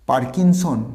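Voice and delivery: পার্কিনসন as "paar-kin-son", r sounded; common mispronunciation. Shown as a demonstration. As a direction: say পার্কিনসন with a firm r. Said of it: "this is not পার্কিনসন".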